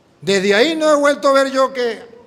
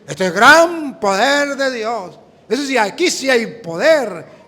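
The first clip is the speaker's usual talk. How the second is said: burla; 2 semitones higher, 5 dB louder, slower than usual. Retold or imitated. Se burla de lo que dice la gente.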